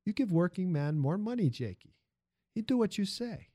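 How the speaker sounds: put-on high-pitched foreign-accented factory hand; animated foreign accent, climbing high; persuasive immigrant worker. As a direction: argue the case in lilting immigrant English. Armando argues for higher wages.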